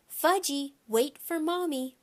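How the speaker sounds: put-on high, loud calling after a child; hollering. A narrator's reading. Mother chasing her son down the path, high holler. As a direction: holler after a runaway toddler.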